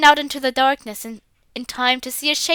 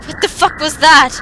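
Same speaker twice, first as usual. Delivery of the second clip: startled alarm; 3 semitones higher, 7 dB louder, slower than usual. Acted. Startled by banging at door.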